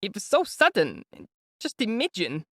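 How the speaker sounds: high, anxious mother's voice; an older woman fretting before meeting her son; high, worried mother voice; fretful mother. A narrator's reading.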